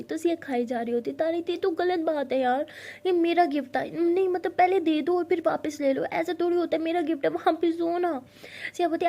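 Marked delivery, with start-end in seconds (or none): 1.5-8.2 higher, louder complaint; upset girlfriend demanding her gift back; indignant protest. Acted. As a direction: protest the unfair grab.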